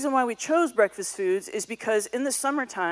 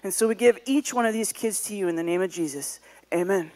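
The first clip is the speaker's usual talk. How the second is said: prayer. Acted. Closing prayer over the kids.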